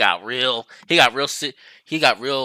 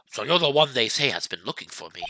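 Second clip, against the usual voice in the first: put-on lower, pompous old lawyer; Grossberg voice; 3 semitones lower, 5 dB quieter than usual. Old lawyer greeting the young visitor in a lower, pompous voice. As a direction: speak as a grand self-important elder. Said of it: "let me see how to do this voice".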